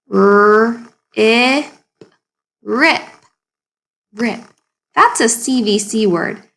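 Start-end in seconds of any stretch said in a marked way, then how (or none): 0.1-1.7 R-I-P spelt out slowly; letter by letter. Shown as a demonstration. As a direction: sound out each letter of R-I-P. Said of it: "Can you sound out that word".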